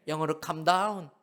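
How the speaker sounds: normal talking voice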